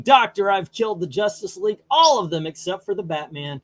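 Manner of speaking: a hint of a lounging Joker musing to his doctor. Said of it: "Joker's laying back saying".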